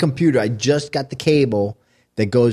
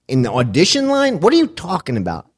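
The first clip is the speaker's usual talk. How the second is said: baffled disbelief; 5 semitones higher, 4 dB louder than usual. Retold or imitated. Acting own baffled reaction to friend.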